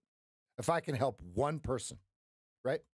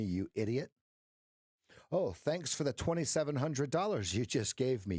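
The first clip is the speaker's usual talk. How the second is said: sarcastic thanks, idiot dropped much lower; mocking Missus Market; 4 semitones lower than usual. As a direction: gloat over the losers' money in a lower voice. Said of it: "that Missus Market going".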